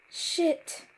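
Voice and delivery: high, loud startled curse; frightened scream. A narrator's reading. Brother scared by the voice, screaming in fear. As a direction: yelp it out in fright. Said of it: "I heard Ricky scream in fear".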